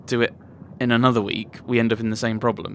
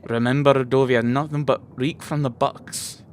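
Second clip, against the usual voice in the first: character read. Acted. Violet's threatening speech.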